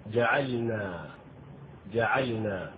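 جعلنا with the lam clearly silent and held; clear sukun. Shown as a demonstration. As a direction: pronounce the sakin lam in جعلنا distinctly. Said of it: "واحرص على السكون".

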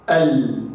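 isolated ال held with the tongue tip on the gums; sounding the Arabic lam. Shown as a demonstration. Teacher demonstrating the lam sound, ال said slow and steady. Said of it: "هكذا".

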